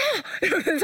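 a short, high burst of laughter; real laugh. Real, not acted. Mother laughing at her son's outburst. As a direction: laugh at the memory.

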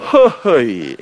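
loud "heo-heo-i" falling steeply in pitch; mimicked awkward "heo-heo-i". Wife told to snuggle in, comic awkward interjection. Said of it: "내가 푹 안기세요".

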